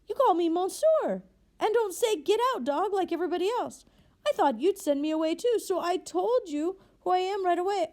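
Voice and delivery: high, loud, tumbling astonished joy; stammering with disbelief. A narrator's reading. Freed convict overwhelmed by the bishop's welcome, high excited stammer. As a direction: blurt it out, hardly believing your luck. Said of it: "He began to stammer like a madman".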